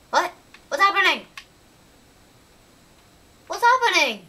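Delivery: high, loud alarmed cry. Real, not acted. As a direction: call out in sudden alarm. Sudden game event.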